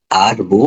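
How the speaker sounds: "আর বু" said as two separate syllables; teacher's syllable-by-syllable "আর বু"; broken into syllables. Shown as a demonstration. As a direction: sound out "আর", then "বু". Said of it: "একদম ভেঙে ভেঙে উচ্চারণ".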